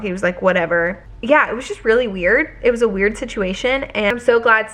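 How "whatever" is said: low, offhand imitation of a shrug; indifferent. Son-in-law getting the lost dog back, imitated indifference. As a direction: drop the pitch and mimic not caring. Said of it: "the guy seemed so indifferent".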